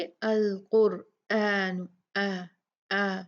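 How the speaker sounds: अल कुरआन slow, आ held two counts; madd al-badal. Shown as a demonstration. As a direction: stretch the आ in अल कुरआन. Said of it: "तो ये मद्दिल बदल हो गया".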